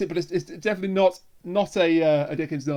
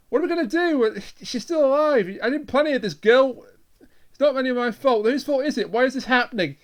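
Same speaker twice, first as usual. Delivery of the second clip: mock panic; 5 semitones higher than usual. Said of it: "Gwyneth is freaking the hell out".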